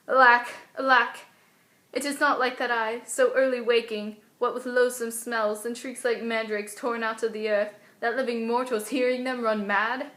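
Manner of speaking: scared stage soliloquy, alarm at the outset; worried mind picturing horrors; Juliet. Acted. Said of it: "scared kind of mixture".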